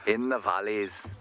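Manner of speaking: slow, badly faked Welsh; drawn-out amateur Welsh lilt; bad Welsh accent. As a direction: have another halting go at Welsh. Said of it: "can't do a Welsh accent".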